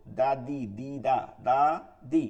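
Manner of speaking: "দা, দি" with a firm, clean d; firm light "দা, দি"; hard thin dal. Shown as a demonstration. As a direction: hit the d of "দা" hard but keep it thin. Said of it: "শক্ত".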